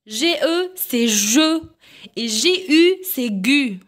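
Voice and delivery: usual speaking voice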